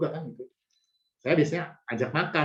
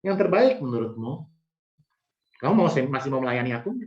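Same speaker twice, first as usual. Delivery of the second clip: voice of Jesus; 2 semitones higher than usual. Retold or imitated. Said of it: "Yesus bilang apa?".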